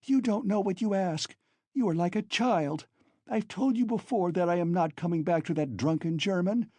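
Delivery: high, pressed pleading; agitated. Acted. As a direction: argue in feverish distress. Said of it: "speaking fast, panting and coughing".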